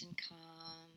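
soothing meditation hush; quiet and calm. Shown as a demonstration. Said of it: "notice our voice is starting to go much more quiet".

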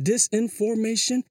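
"Disinformation" in five separate beats; syllable by syllable. Shown as a demonstration. Showing listeners how long the word is, "Disinformation" measured out syllable by syllable. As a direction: count out each syllable of "Disinformation". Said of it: "five syllables".

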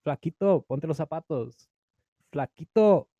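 high mock parent calling out in Spanish; parents calling out nickname. Parent calling son across the room, mock high calls. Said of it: "have your parents say that in front of your family".

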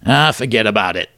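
half-hearted mock Brooklyn accent; a weak stab at a Brooklyn accent; bad Brooklyn accent. Comic quoting Robert Mueller in a badly faked Brooklyn accent. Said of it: "in a surprising Brooklyn accent".

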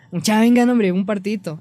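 calling out to friends. Shown as a demonstration. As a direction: shout over to the guys for a game.

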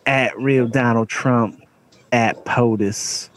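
slow, drawn-out read of a rapper; the rapper's voice. Retold or imitated. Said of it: the speaker has to do the rapper's voice.

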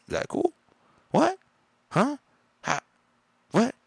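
loud, exasperated outbursts; angry yelling at the clerk's rudeness; real yelling. Real, not acted. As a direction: shout it in disbelief. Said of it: "Sorry, I'm screaming now".

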